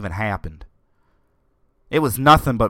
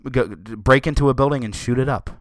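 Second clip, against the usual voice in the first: ordinary delivery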